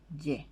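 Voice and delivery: Ye. said as a voiced y plus e; Guarani syllable. Shown as a demonstration. A teacher modelling the Guarani letter sound. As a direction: repeat Ye. slowly and clearly. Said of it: "y leemos ye".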